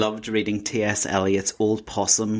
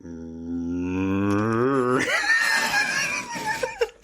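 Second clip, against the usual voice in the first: cow impression; 2 semitones higher than usual. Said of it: "I'm quite good at a cow too".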